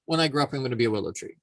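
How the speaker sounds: acorn gushing. Acted. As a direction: play a starstruck little acorn, climbing in pitch. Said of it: "looks around and go".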